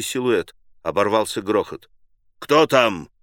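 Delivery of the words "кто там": thundering. Acted. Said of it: "загремел Машлаевский".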